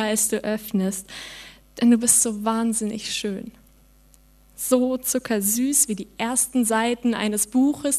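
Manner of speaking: slow, melancholic spoken-word delivery with long pauses; poetry slam recital. Acted. Performer reading her poem to the audience, melancholic. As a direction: let each line land like a diary entry.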